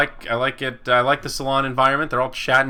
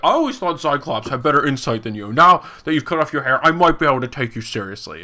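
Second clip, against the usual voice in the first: mock snarky commenter; 4 dB louder than usual. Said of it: "someone just posted".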